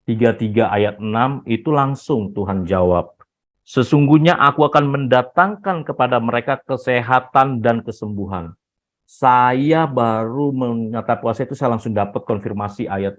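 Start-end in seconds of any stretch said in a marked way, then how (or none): 3.7-8.5 higher-pitched emphatic quote, settling at the end; scripture declaration. Retold or imitated. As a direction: proclaim it like a divine promise. Quoting God's answer from scripture.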